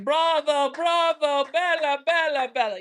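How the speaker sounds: sing-song cheering of men in a Roman street; Italian guys cheering. Retold or imitated.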